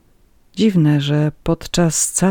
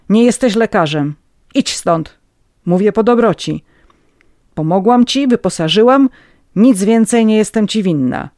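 raised, higher voice, cutting off the plea; stern dismissal; 6 semitones higher, 7 dB louder than usual. Acted. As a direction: send an unwanted visitor away firmly. Madam sends away pregnant Agnieszka.

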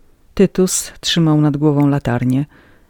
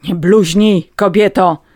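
loud, raised reprimand; scolding; 4 semitones higher, 8 dB louder, slower than usual. A narrator's reading. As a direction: rebuke her sternly. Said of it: "zgromił ją January".

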